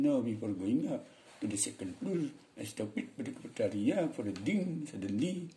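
mock Balinese-accented English; demonstrated Balinese intonation. Shown as a demonstration. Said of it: "Orang Bali misalnya".

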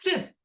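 "т" as a short bare phoneme; a brief, separate "т"; isolated last sound. Shown as a demonstration. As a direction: say "т" alone, not as a letter name. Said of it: "звук т".

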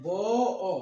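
"ব" টেনে, তারপর আলাদা "অ"; "ব অ" দুটি ধ্বনি থেমে থেমে বলো; ধ্বনি ভেঙে উচ্চারণ. Shown as a demonstration. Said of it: "এই বড়টাকে যখন আমরা উচ্চারণ করি". ("ব অ" ভেঙে টেনে বলা)

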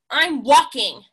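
snapping. Acted. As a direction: bite off the words, annoyed. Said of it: "snapped Bird".

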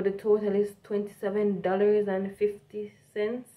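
carefully enunciated standard English, Jamaican accent suppressed; pretty up the English for American customers; prettied-up English. Shown as a demonstration. Jamaican cashier giving a customer the total, prettied-up English. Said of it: "if you pretty it up".

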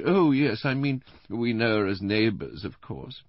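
high-voiced invalid wife; Missus Bland, plaintive. A narrator's reading. Invalid wife checking her memory with her husband, plaintive. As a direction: answer in a high, delicate, plaintive tone.

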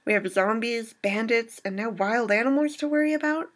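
sarcastic list of threats, climbing in pitch; rising incredulous list. Acted.

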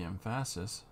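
"emphasis" said with a full open second vowel, em-FA-sis; own pronunciation. Real, not acted. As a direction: say "emphasis" as em-fass-is, the middle vowel open like "fast". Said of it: "that's how I pronounce emphasis".

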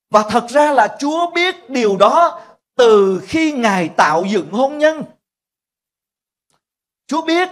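high, loud pulpit proclamation; preaching at full force. Acted. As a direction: proclaim it to the whole church. Sermon climax on God's knowledge. (giảng đạo hùng hồn, to và cao giọng)

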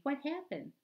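high, loud breathless little sister questions; panting alarm. A narrator's reading. Little sister finds brother on the table, high panicked panting. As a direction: pant it out, wide-eyed and alarmed. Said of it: "panting, saying".

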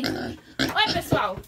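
very low put-on animal voice; voicing the pig. Vlogger voicing her pig greeting the viewers, very low. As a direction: answer for the pig in a deep grunt. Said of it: "Fala oi".

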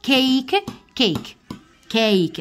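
teacher drilling the English word كيك; English word cake. Shown as a demonstration. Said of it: "هنا نقولها كيك".

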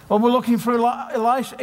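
high, quick puzzled soldier; confused soldier. Retold or imitated. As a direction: gormless soldier asking around.

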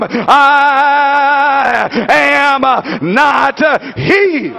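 emphatic sermon delivery with punched phrases; full-force preaching. Acted. Preacher acting out John's answer to the congregation, full-force preaching.

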